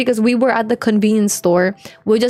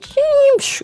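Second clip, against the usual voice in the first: sudden high squealing screech, like tyres skidding; tyre screech imitation. Telling friends about the crash, imitating the car's screech. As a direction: mimic a car drifting past with a sharp high squeal.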